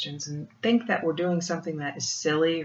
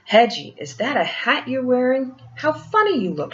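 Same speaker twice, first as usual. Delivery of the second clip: higher, louder teasing call; barking dog mother; 5 semitones higher, 5 dB louder than usual. A narrator's reading. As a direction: bark it out teasingly. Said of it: "she barked".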